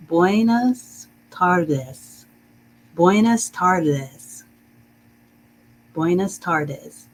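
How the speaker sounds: slow, careful Spanish accent on Buenas tardes. Shown as a demonstration. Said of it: "put a little bit of a Spanish accent on it".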